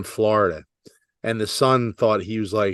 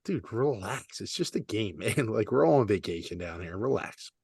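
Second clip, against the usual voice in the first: soft calming plea; 7 dB quieter than usual. Retold or imitated. Golfer to the angry son, quiet soothing plea. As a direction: gently talk him down. Telling the serious son to relax.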